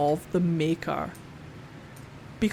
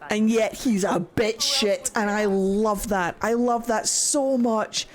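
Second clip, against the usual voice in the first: fond gushing; slower than usual. Real, not acted. Gushing fondness for character.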